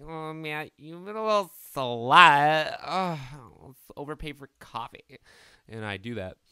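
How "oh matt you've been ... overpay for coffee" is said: high, mocking voice scolding himself; hammed-up self-scolding, louder and higher; mock inner voice. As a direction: tease yourself in a loud put-on voice. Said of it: "I'm like".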